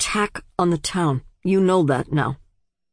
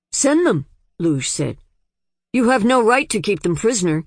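sharp demand; 4 semitones higher than usual. Acted. Daughter defies father.

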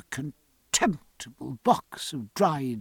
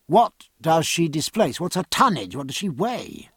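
lightly voiced captain, raised at first; insistent sea captain; 3 semitones higher than usual. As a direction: press the question as a hearty captain.

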